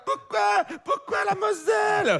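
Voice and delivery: put-on high, slow plaintive wail of a lost kid; high drawn-out child's whine; wailing abandoned child. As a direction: cry out like a dumped child on a roadside. Abandoned red-haired kid wailing.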